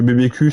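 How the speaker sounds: B B Q with a French "ku" for the Q; French vowel in the Q of B B Q; French-style letters. Real, not acted. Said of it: "ça fait bizarre".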